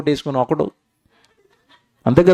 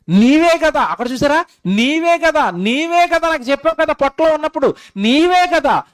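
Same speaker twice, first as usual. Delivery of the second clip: put-on childlike plea; 11 semitones higher than usual. Baby telling God it was him, high and insistent. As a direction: cry it up high like a little child.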